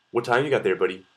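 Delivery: imitated pushy Surrey accent; aggressive Surrey accent. Vancouverite imitating how people in Surrey talk, aggressive Surrey accent. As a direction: demand it like a Surrey local. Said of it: "it sounds really aggressive to me".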